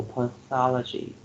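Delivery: pathology stressed on THO, its second syllable. Shown as a demonstration. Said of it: "put a stress on the second syllable".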